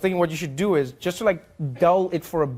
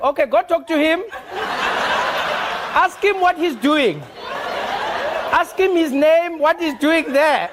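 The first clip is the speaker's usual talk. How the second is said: South African operator; 12 semitones higher, 3 dB louder than usual. Retold or imitated. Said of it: "Be like".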